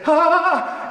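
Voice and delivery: loud high pained groan, held; a sick man's loud high "ah" on greeting; strained groan. Retold or imitated. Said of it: "I say".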